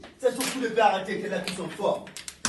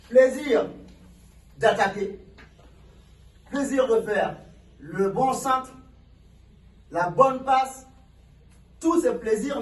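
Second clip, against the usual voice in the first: fired-up coach; 3 semitones higher, 4 dB louder, slower than usual. Real, not acted. Coach pumping up team.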